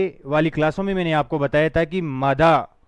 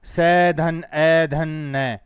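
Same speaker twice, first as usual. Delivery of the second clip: slow segment breakdown; much slower than usual. Shown as a demonstration. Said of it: "तो इसमें long वाला आएगा".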